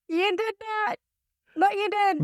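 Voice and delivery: high, slow, through laughter; laughing. Real, not acted. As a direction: tease while cracking up. Laughing teasing her partner.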